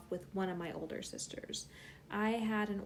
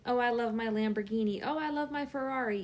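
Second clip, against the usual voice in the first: lightly boastful, raised mock gush; mock bragging; 2 semitones higher, 3 dB louder, faster than usual. Friend bragging to friend about a luxury car, mock boasting. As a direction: imitate someone showing off. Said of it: "bragging to".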